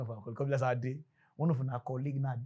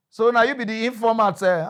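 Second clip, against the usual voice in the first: accusing cop; 6 semitones higher, 9 dB louder than usual. Retold or imitated.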